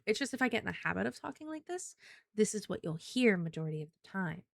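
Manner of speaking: light lilting everyday cute voice; gently airy lilt. Shown as a demonstration. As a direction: let it float, airy and lilting. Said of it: "That really airy, light, lilting voice".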